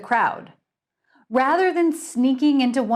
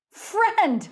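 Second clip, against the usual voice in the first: higher, mirthless chuckled word; bitter scoff; 11 semitones higher than usual. Acted. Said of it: "Butch chuckled ... nothing lighthearted".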